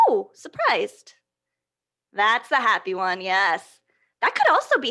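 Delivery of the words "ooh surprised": slow drawn-out ooh of surprise; slow, hammed-up ooh; mock surprised ooh. Shown as a demonstration. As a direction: act out being surprised for kids. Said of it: "Not happy, more".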